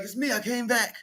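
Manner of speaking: high, loud put-on Chinese accent; pleading "baby it's me" in a hammed-up Chinese accent; mock Chinese accent. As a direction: ham up a Chinese accent as the dead man back in a new body. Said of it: "accent of the Chinese".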